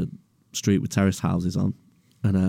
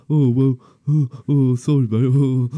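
higher, louder bumbling apology; sheepish driver; 6 semitones higher, 6 dB louder than usual. Retold or imitated. Driver apologising lamely, bumbling and loud. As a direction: fumble the sorry like a dopey bloke. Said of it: "He was like".

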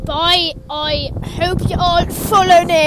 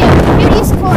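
put-on interviewer voice; 9 dB louder, faster than usual. Playful interviewer voice.

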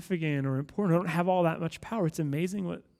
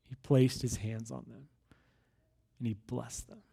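scripture reading; 5 semitones lower than usual. A narrator's reading. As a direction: read it out gravely, sinking toward a hush. Reads scripture aloud to congregation.

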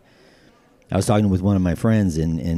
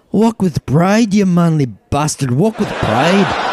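much higher, loud, slow and grand; a Scot hailing the batter with pride; proud rallying cry; 10 semitones higher, 4 dB louder, slower than usual. Acted. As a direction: proclaim it like a battle cry, laughing through it. Scotsman cheers the walk.

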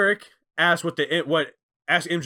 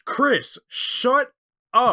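mock scolding; 8 semitones higher, 4 dB louder, much slower than usual. The speaker telling Jericho off.

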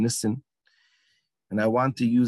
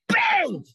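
sudden, much higher burst on bang!; imitated explosion. Storyteller imitating the explosion on stage, sharp burst. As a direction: pop it out like a sudden blast.

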